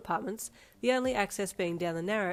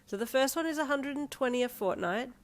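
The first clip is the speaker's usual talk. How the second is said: higher, bright sales pitch; forced optimism; 6 semitones higher than usual. Acted. Girlfriend selling a cheap house, forced cheer. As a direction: oversell it cheerfully. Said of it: "trying to sound as optimistic as possible".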